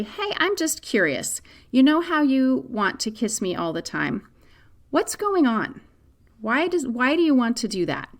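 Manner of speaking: put-on gentle, curious question to a child; mother gently asking her son why he does it, kind voice; really nice voice. Shown as a demonstration. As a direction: ask kindly, with a lifted voice, no blame. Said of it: "just say to him in a really nice voice".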